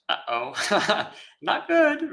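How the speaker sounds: high, laughing uh-oh, playful alarm; mock uh-oh. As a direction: squeak it out as a comic warning. Paraphrase of Buddha's meaning.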